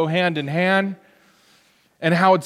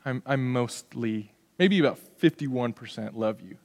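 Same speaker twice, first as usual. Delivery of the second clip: half-hearted sweet talk; 6 semitones lower, 7 dB quieter than usual. Retold or imitated. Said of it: "I'd say".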